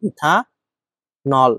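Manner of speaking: ইথানল drawn out extremely slowly; teacher spelling out ইথানল slowly; slow dictation. Shown as a demonstration. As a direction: stretch every syllable of ইথানল for the class. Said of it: "ইথানল হয় এটা ভাই".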